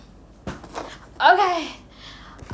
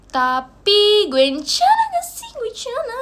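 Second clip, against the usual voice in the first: drawn-out sing-song tease, pitched up; playful high voice; 6 semitones higher, 4 dB louder than usual. Pretend. Vlogger teasing herself to viewers, in a slow high sing-song. Mock-singing about herself.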